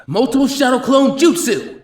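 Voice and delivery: high, loud slow shout of the technique; jutsu battle cry. Acted. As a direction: call out the attack with all your force. Naruto shouts jutsu name.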